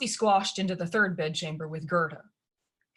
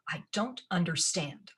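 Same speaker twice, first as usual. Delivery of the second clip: ordinary delivery, nothing marked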